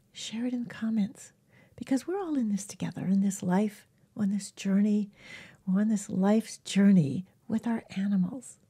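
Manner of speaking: hushed sincere whisper. Acted. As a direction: whisper it like a shared secret. Gentle closing reflection.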